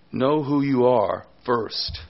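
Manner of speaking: slow, weighted "Know", then "first" set down; stress on KNOW. Shown as a demonstration. Preacher giving Paul's main point, stressing "Know". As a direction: lean slowly on "Know" and "first". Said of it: "that's what Paul is emphasizing here".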